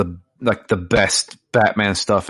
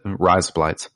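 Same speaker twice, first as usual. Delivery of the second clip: "Rise up, lights" quick, run together; said fast; 2 semitones lower than usual. Shown as a demonstration. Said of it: "you have to say it fast".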